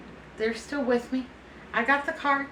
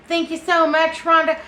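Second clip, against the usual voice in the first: excited thanks; 6 semitones higher, 7 dB louder than usual. Real, not acted. Thanking friend for mayonnaise gift.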